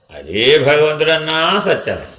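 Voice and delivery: slow and certain, weight on భగవంతుడన్నా; slow firm assertion; said with certainty. Shown as a demonstration. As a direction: state it firmly, slowly. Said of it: "నిశ్చయంగా చెప్పినా".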